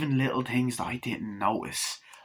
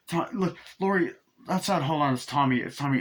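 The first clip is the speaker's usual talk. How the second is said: put-on scared kid voice; 4 semitones higher than usual. Voicing scared kid Tommy.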